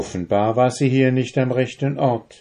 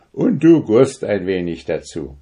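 compassionate; 4 semitones higher, 5 dB louder than usual. A narrator's reading. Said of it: "hatte tiefes Mitleid".

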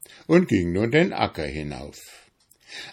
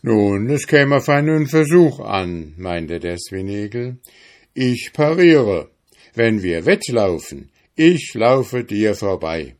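hedgehog voice; 5 dB louder than usual. Acted. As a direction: puff himself up, challenging the hare. Hedgehog offers the race. (gereizter Igel, hoch und laut)

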